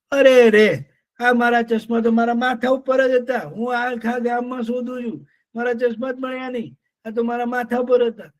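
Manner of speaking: high, rueful bird voice; silly lapwing. Acted. Lapwing finds glasses on her head, rueful. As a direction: exclaim at your own silliness.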